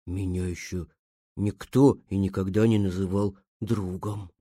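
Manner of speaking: very low, soft bear voice; deep, hushed storybook bear; quietly. Acted. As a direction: confess it softly in a deep bear voice. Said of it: "произнёс он тихо".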